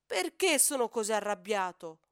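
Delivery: loud shout to the sky, PERCHÉ hit hard; exasperated cry. Acted. Hippo calf yelling his frustration at the sky. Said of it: "urla al cielo esasperato".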